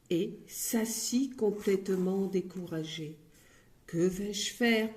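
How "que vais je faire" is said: discouraged thought. Acted. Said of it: "pensa-t-il".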